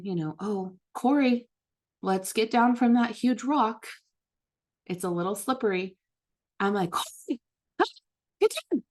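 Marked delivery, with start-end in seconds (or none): 0.4-6.0 calm. Retold or imitated. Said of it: "instead of calmly saying". 6.9-8.8 yell. Retold or imitated. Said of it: "And I will yell".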